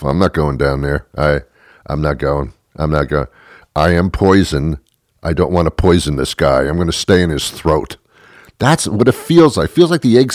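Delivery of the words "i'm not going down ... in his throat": egg salad talking. Retold or imitated. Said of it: "the food actually said to itself".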